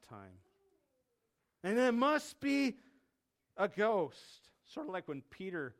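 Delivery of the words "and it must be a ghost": loud, slow, raised alarm; frightened conclusion. Acted. Disciples explaining the figure to themselves, alarmed cry. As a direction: draw it out in alarm. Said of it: "They were terrified".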